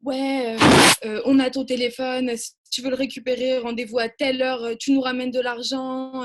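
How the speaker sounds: a hint of a street thug demanding money; lightly voiced racaille on the phone; imitating a thug's voice. Animator retelling the prank caller's thug voice, mildly imitated. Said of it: "avec une voix, euh, vraiment de racaille".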